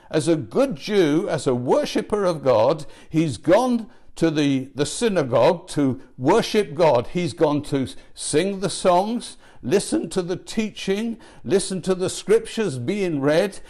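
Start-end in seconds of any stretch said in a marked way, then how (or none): none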